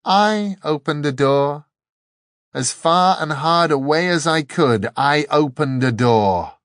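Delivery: calling out. A narrator's reading. Dor telling the angel where it opened, calling out. Dor calls over roaring wind.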